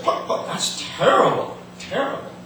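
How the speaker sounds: high, whispery clucking hen voice; breathy high chicken clucks. Acted. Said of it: "the chicken just clucked and said".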